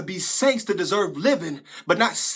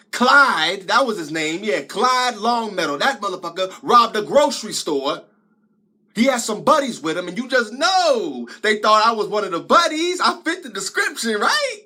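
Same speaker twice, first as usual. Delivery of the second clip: heated, emphatic retelling, climbing at the end; indignant; 4 dB louder than usual. Acted. Telling Cecil about his wrongful arrest, indignant. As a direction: punch out the injustice of being mistaken.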